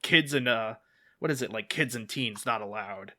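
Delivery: hyped announcer voice, lightly done; monster truck ad. Retold or imitated. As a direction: imitate a monster truck radio ad. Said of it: "the Monster Truck commercial where he goes".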